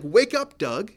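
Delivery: a firm but kind voice rousing a dreamer; God's wake-up call. Retold or imitated. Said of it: "It was like".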